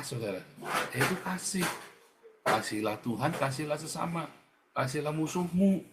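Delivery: ordinary delivery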